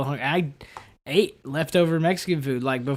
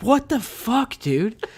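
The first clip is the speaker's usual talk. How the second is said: manager's retort; 8 semitones higher, much slower than usual. Retold or imitated. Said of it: "my manager was like".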